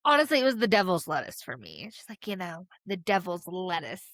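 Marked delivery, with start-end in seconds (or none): 2.8-4.0 put-on slow, deliberate old-timer delivery of the slang; prim mock reading of the phrase; old-fashioned square voice. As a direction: say it like someone stuck in the seventies. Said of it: "What are you, from the fucking seventies?".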